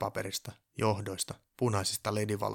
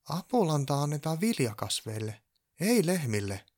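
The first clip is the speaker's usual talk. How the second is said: heated objection, higher and louder; 6 semitones higher, 5 dB louder than usual. A narrator's reading. Purjopää objecting to the elf about Apulanta, heated. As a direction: flare up in protest. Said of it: "Purjopää kiivastui".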